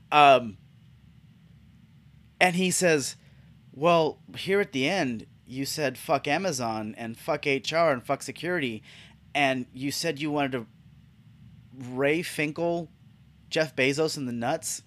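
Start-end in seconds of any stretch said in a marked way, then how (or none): 3.7-14.8 soft, hesitant awkward recital; imitating uncomfortable manager. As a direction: read it out gingerly, pausing before the embarrassing words. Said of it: "he was so uncomfortable to say the words".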